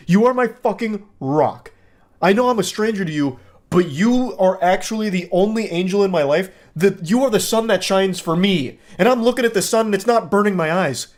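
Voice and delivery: high-pitched, hammed-up adoration; obsessed admirer. Obsessed stranger declaring love to a model, overwrought.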